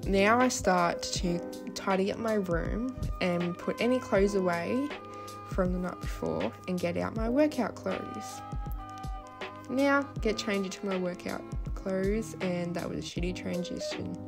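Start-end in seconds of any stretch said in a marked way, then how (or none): 5.5-14.2 slushy lisp on s sounds; speaking with a lisp. Real, not acted. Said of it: "Sorry for my lisp also".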